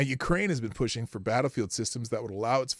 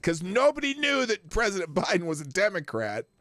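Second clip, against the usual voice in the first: dry mock surprise; sarcastic aside; 5 semitones higher than usual. Real, not acted. Mocking the article.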